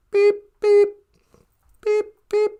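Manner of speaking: high vocal beeping; short, even mouthed beeps; imitated call beeps. Ship's phone calling out, beeping.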